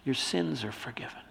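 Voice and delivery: very soft and tender; softly, as Jesus to the paralytic; hushed forgiveness. Acted. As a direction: drop to a quiet, gentle pronouncement.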